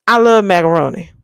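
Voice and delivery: excited food declaration. Pretend. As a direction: blurt it out with gusto. Louder faster repeat.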